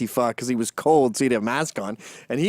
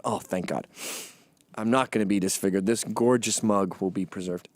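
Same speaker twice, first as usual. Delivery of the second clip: lower, softer sigh of relief; 8 semitones lower, 6 dB quieter than usual. Retold or imitated. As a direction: breathe it out like the danger is over. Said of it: "I just went".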